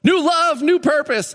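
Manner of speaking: high, chirpy, careless; Paul shrugging off the words, high and flippant; mock casual Paul. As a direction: breeze through it like a slogan. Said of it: "And he's like".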